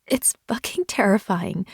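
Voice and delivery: whispered, croaking through tears; croaked. Acted. Woman telling her husband her fear, croaked whisper. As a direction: force it out in a broken whisper. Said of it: "and I croaked".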